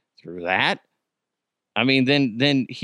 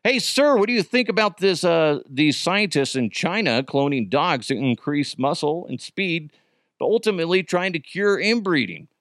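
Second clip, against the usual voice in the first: mock interviewer; 5 semitones higher than usual. Plays interviewer addressing Arkansas man.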